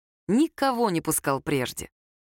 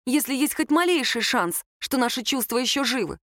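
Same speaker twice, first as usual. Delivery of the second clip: lightly voiced Lera; 3 semitones higher than usual. Girl explains she will fight to win her ex back, mildly earnest. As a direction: plead your case with mild intensity. Lera's speech in dialogue.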